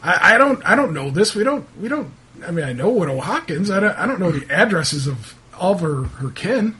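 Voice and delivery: lightly voiced townsman disclaiming responsibility; a hint of a put-upon local; defensive local man. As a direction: protest mildly, pitch jumping up. Game master plays irritated local.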